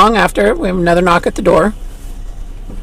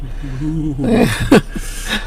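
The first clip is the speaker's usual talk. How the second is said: ghostly laugh; 3 semitones lower, 5 dB quieter than usual. Pretend. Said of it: "very good ghost voice you got going on".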